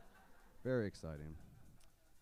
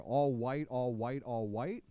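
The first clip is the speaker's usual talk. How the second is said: Matthew McConaughey drawl; 2 semitones lower, 4 dB quieter, slower than usual. Retold or imitated. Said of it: "that's a racist Matthew McConaughey".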